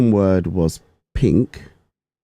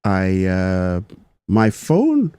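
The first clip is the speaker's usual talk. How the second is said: hesitant put-on Indian accent; much slower than usual. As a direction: feel your way into a joke Indian accent. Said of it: "I'll try my best to do the Indian accent".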